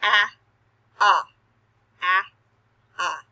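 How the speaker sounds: "ah" four times, open and clear; repeated ah sounds. Shown as a demonstration. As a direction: chant "ah, ah, ah, ah" with the mouth wide. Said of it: "So go".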